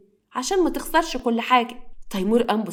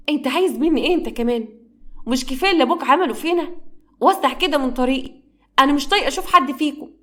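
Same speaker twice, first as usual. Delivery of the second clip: higher, louder furious rebuff; angry outburst; 5 semitones higher, 3 dB louder than usual. Acted. Habiba turns on her cousin Khaled, loud and furious. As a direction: push him away with raised anger.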